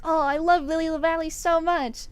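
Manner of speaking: imitating herself swooning over flowers; gushing to mom. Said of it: "And I'm like".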